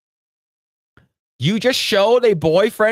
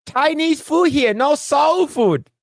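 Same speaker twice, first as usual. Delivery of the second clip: movie quote; 9 semitones higher, slower than usual. Retold or imitated. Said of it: "the one he goes like".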